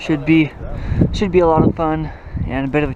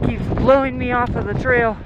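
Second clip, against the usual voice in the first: shouting over wind; 8 semitones higher than usual. Real, not acted. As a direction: call out over the gusts. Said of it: "can you guys hear me over the wind".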